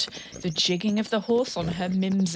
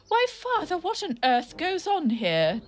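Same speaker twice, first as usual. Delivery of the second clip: much higher shocked exclamation; surprised cry; 9 semitones higher than usual. Acted. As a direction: gasp it out in disbelief. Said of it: "Dilly cried".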